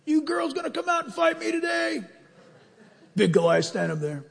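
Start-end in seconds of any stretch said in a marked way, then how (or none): 0.0-2.0 mock giant taunt. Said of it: "Goliath got up and yelled at Israel".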